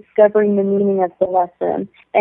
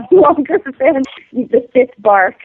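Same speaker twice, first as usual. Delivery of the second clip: real laugh breaking into the words, higher pitched; amused, laughing at a fond memory; laughing to herself; 4 semitones higher than usual. Real, not acted. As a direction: chuckle through the punchline. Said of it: "I'm just laughing to myself".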